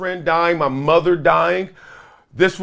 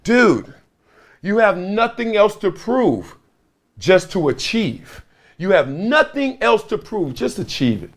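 slow, raised-pitch retold pep talk; imitating an insistent counselor; earnest exhortation; 4 semitones higher than usual. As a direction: press each phrase home as the counselor. Acted counselor urging him.

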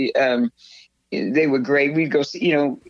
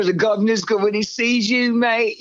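higher-pitched Cockney imitation; Cockney bodyguard; 5 semitones higher than usual. Imitating the bodyguard warning her, Cockney. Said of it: "he was really cockney".

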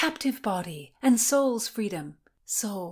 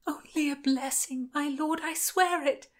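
put-on higher, pleading girl; frightened young woman; 6 semitones higher than usual. A narrator's reading. Constance confesses to the sheriff and Lord William, higher and pleading. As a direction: confess meekly to the powerful men.

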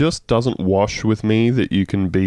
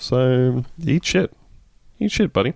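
dismissive; 5 semitones higher than usual. Real, not acted. Insulting Trudeau.

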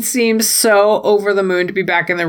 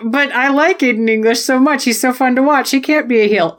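higher-pitched pleading fan protest; mock protest; 5 semitones higher than usual. Fan refusing to accept favourite is villain, mock protest. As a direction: plead the favourite's case, a little high. Acting out own fannish protest.

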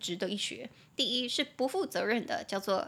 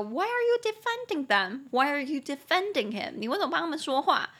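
imitating annoyed friend; 5 semitones higher than usual. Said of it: "我的朋友就会说".

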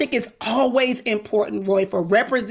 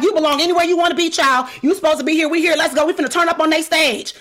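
fast, higher retold rallying cry; rallying pep talk; 5 semitones higher, 3 dB louder, faster than usual. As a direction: hype up the girls, quick and insistent. Retold pep talk to her girls.

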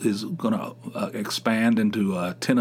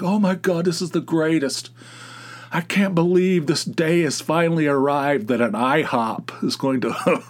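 higher, mock-starstruck gushing; mock gushing fans; 5 semitones higher than usual. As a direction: ham up giddy fans over a new restaurant. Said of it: "They're like".

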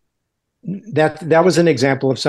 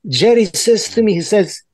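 high-pitched generic Eastern European accent; storytelling in a higher Eastern European accent; 5 semitones higher than usual. Shown as a demonstration. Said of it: "I was using this kind of accent".

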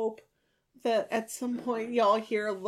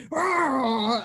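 mock growl; 5 semitones higher, 3 dB louder than usual. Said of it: "goes from talking like this to".

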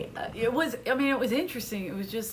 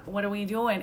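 put-on Boston accent. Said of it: "Oh, you're from Boston?".

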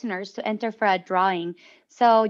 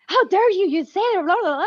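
high, raised, sing-song mock protest; retold upset outburst; 9 semitones higher, 4 dB louder than usual. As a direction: act out raising your voice in indignation. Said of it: "I got so upset and I was like".

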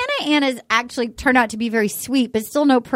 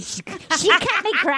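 put-on Australian accent; 5 semitones higher than usual. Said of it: "Are you doing Mad Max?".

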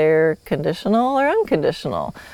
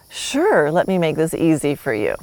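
willing horse; 3 semitones lower than usual. Acted. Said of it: "Or he might go".

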